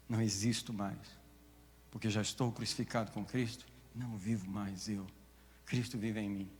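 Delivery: soft, low, sincere confession; hushed, humble testimony; quiet testimony. Real, not acted. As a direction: speak it gently, as a personal confession.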